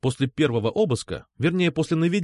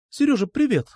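much higher, bright greeting; lightly voiced girl calling happily; cheerful girl; 12 semitones higher, 3 dB louder than usual. A narrator's reading. Alpha on phone, high.

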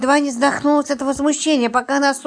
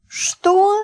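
high, sharp outraged "Что?"; indignant what; 10 semitones higher than usual. A narrator's reading. Roman bristling at Lipochka's praise of her husband, high outraged yelp. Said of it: "возмутился Роман".

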